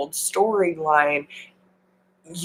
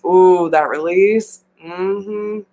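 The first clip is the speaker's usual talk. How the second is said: savoring sigh; slower than usual. Real, not acted. Savouring the release.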